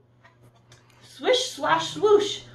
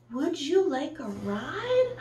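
kind offer; 4 semitones higher, slower than usual. Acted. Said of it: "said Blue".

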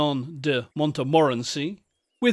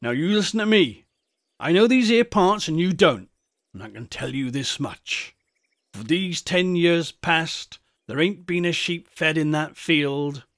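countryman laying down the law, emphatic at first; old rustic shepherd, insistent. Acted. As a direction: lecture the youngsters as an old shepherd. Shepherd lectures the boys.

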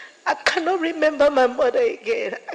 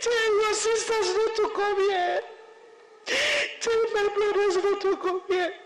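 tearful; 5 semitones higher than usual. Real, not acted. Retelling mother's plea while crying.

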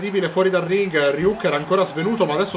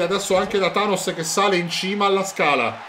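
usual speaking voice

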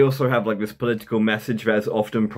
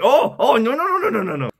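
high, squealed mock Asian accent; hammed-up Asian caricature, pitched way up; 10 semitones higher than usual. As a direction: rattle it off in a fake Asian accent. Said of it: "the Asian thing is quite easy to do".

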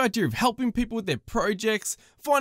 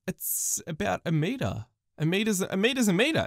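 softer, flat mock answer; deadpan sarcasm; 4 semitones lower, 3 dB quieter than usual. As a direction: say the obvious with dry deadpan. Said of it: "Um, yeah".

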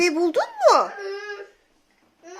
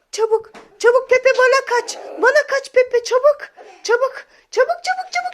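urgent play call; 7 semitones higher than usual. Pretend. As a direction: urge the toy to run to you, playful alarm. Mother calls toy to escape.

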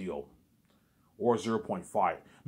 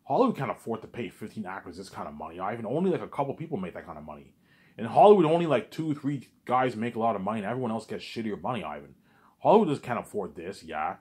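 shocked. Retold or imitated. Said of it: "He'll be shocked".

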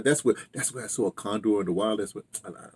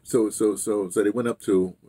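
ordinary talk

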